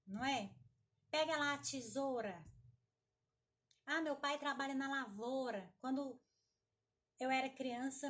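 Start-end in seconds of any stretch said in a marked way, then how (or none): 1.1-2.4 casual "tesoura" said as "tisôra"; everyday speech, "tesoura" reduced to "tisôra"; u swallowed. Retold or imitated. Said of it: "ouvir gente falando assim". 3.9-5.7 casual "lavoura" said as "lavôra"; everyday speech, "lavoura" with plain ô; u swallowed. Retold or imitated. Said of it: "ouvir gente falando assim".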